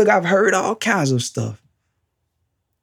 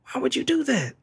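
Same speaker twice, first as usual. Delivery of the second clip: hushed disbelief; 7 semitones higher, 6 dB quieter, faster than usual. Retold or imitated. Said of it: "would say".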